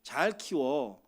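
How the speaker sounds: slow, deliberate charge to a parent; lightly voiced, unhurried entrusting command; God. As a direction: hand over the children slowly and firmly. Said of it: "저한테 위탁하신 거예요".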